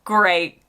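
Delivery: Gray held and stretched; Gray, drawn out; start of British Graham. Shown as a demonstration. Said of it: "Whereas I think in the U K".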